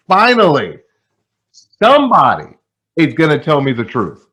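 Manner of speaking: finally, here it comes; eager agent hoping for the real secret; excited relief. Retold or imitated. Hopeful at last at training.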